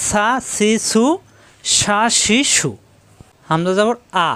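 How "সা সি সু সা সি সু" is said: সা সি সু with a clean sharp s; teacher sounds out সা, সি, সু slowly with a plain s; sin with no dots. Shown as a demonstration. Teacher drilling students on the letter sin, precise. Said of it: "তিন নক্তা থাকলে শিন, নক্তা ছাড়া সিন".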